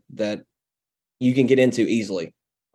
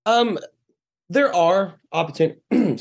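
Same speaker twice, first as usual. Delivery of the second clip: burping; 8 semitones higher, slower than usual. Real, not acted. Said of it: "I'm drinking a beer and it's making me, uh, burp more".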